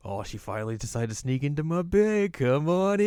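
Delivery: imitated flirt. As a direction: welcome her with hammed-up delight. Acting Moroku flirting at bedtime.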